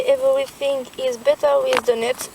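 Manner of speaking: English slogan read in a French accent. Real, not acted. French girl reading her pouch's English slogan, French accent. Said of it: "excusez-moi pour, euh, mon accent en anglais".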